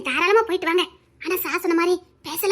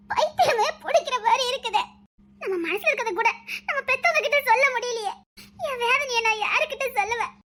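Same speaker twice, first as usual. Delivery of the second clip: choked sobbing words; tearful crying. Acted. Girl weeping alone, aching to see her love, crying. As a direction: weep it out, broken with tears.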